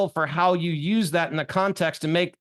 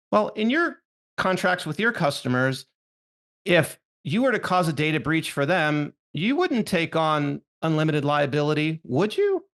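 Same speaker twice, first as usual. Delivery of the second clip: rising, inquisitive tag question; questioning upward inflection. Shown as a demonstration. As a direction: ask it as a gentle question, tune rising at the end. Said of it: "it's the inflection in my voice at the end there".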